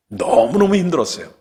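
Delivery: 너무너무 burst out high and loud; 너무너무 cried out with anguish; emphatic cry. Real, not acted. Preacher recalls painful time. (너무너무 크게 터뜨리며)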